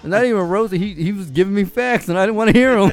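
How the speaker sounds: laughing. Real, not acted. Telling friends about his own overreaction, laughing hard. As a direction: laugh at yourself while you tell it. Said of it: "started laughing".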